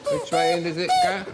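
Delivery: very high buzzing swazzle squeak; puppet squawk voice. Real, not acted. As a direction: squawk it through a Punch reed. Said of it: "a swazzle".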